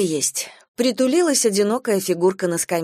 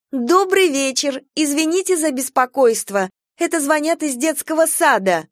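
higher, slow, over-polite phone greeting; polite drawl; 8 semitones higher than usual. A narrator's reading. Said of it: "вежливо затянула". (вежливо тянет в телефонную трубку)

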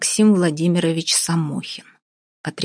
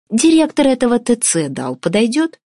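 ironic question; 6 semitones higher, 4 dB louder than usual. Acted. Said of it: "с иронией спросила Вася".

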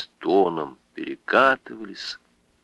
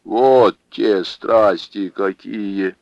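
amazed hush; 4 dB louder, much slower than usual. Acted. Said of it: "с изумлением прошептала".

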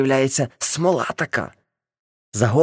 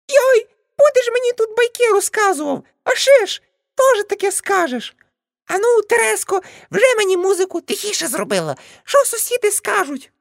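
scolding aunt. Acted. Aunt Nastia yelling at the drunk smokers, high shrill scolding. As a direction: shriek at them like an outraged auntie.

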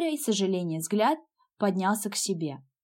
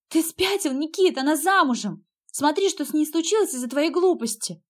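angry scolding; 6 semitones higher than usual. A narrator's reading. Sister scolds brother in quarrel.

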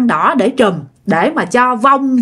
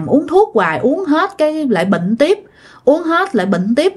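higher-pitched weary listing of woes; lightly acted grumble, each item pitched up; mildly exasperated retelling of a complaint; 5 semitones higher than usual. Grandmother complains to the healer.

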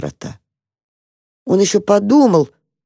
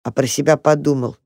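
ordinary delivery

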